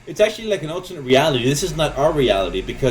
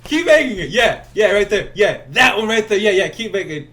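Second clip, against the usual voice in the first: high, loud eager coaching; excited director voice; 7 semitones higher, 5 dB louder than usual. Retold or imitated. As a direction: cheer him on, pitched way up. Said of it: "He goes".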